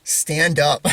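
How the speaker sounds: retold line breaking into laughter; amused punchline. Punchline told while breaking into laughter.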